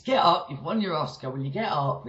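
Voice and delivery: attempted Scottish scolding; a half-hearted go at a Scottish friend's accent. Friend scolding someone who just fainted, mock Scottish accent. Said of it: "I can't do a Scottish accent".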